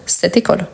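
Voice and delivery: "Cette école" as one joined word; no gap between "Cette" and "école"; said all together. Shown as a demonstration. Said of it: "je parle tout ensemble".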